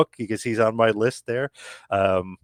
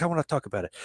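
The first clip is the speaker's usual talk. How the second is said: higher, softer fake French Canadian; a touch of bad French Canadian accent; horrible French Canadian accent; 5 semitones higher, 6 dB quieter, faster than usual. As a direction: lightly imitate a French Canadian, pitched up. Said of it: "my horrible, uh, French Canadian accent here".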